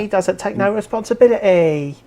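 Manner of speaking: high, loud hammed-up Cockney accent; mock Cockney. Mocking a friend's client, a loud, high hammed-up Cockney accent. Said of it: "terrible Cockney accent".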